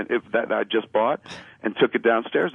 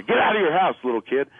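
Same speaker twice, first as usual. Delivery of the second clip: mock police order; 5 semitones higher than usual. Police order the kid, retold.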